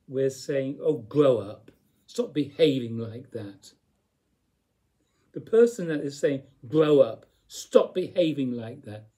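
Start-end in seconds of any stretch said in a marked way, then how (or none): 0.8-3.7 put-on louder, stern scolding of someone childish; scolding parent. A teacher mocks the scold we give others, stern and louder. 6.7-9.1 loud, sharp telling-off; reactive scolding. Retold or imitated. Teacher voices the irritated person who scolds, loud and sharp.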